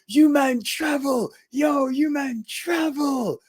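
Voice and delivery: high, slow, stretched mock shout; excited exclamation. Amazed wrestler greeting travelling fans, imitated excited cry. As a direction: cry it out high, drawing out the words.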